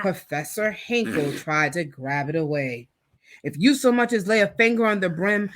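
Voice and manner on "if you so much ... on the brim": declaring. Acted. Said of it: "declared Santa".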